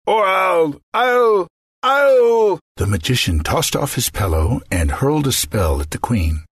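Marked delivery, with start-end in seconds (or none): 0.1-2.6 rising louder, stammering fury; sputtering threat. Acted. Magician sputtering a threat at the queen. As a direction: choke on the threat, building.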